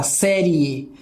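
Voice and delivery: "série E" with I gliding into a final E; "série E" with both closing vowels audible; diphthong demonstration. Shown as a demonstration. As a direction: say "série E" drawing out the ending, I running into E. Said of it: "o I mal termina, já vem o E".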